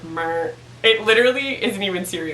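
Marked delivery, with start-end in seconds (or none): 0.0-0.5 low droning computer noise; mock robot drone. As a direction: imitate a lifeless computer voice. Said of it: "the most computered voice ever".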